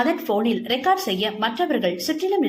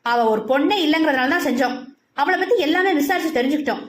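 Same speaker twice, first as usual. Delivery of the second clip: fast, climbing higher, heated comeback; angry retort; 5 semitones higher, faster than usual. Acted. Mathi hits back at Satyan, fast and angrily. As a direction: fire it back at him, rising higher. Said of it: "அதே கோபத்துடன் பதில் சொன்னாள்".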